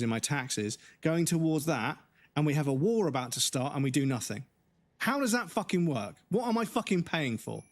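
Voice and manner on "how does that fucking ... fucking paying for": ranting. Real, not acted. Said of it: "but I was mid-rant".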